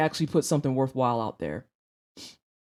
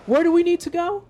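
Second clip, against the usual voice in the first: imitating his dad, higher and louder, a polite question that is really an order; demand with a question mark; 10 semitones higher, 5 dB louder than usual. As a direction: ask it like the answer had better come now. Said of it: "I want y'all to note the inflection on that".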